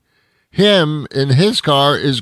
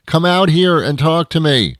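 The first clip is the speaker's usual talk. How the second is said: raised, higher challenge; angry demand; 5 semitones higher, 4 dB louder than usual. Acted. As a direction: call them out to come face you. Demanding the worker come out.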